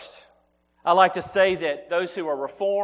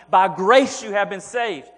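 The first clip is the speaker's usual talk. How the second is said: bold proclamation; 5 dB louder than usual. Retold or imitated. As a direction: proclaim it boldly, a bit louder. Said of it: "to boldly proclaim".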